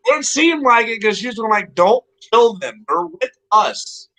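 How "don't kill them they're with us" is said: slow, drawn-out imitation of pleading; retold begging. Friend pleads for a captured group's lives, retold begging. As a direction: plead for their lives, stretching the words, as a retelling. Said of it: "Scarlett begged for my life".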